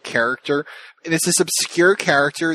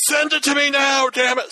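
demanding. Retold or imitated. Demanding the chapter.

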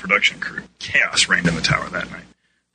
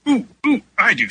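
high, louder excited squeal; eager volunteer; 5 dB louder than usual. A narrator's reading. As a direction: jump in, begging to be picked. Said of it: "her hand raised as she jumped up and down".

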